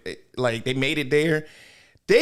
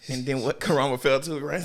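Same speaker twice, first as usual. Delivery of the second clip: ordinary delivery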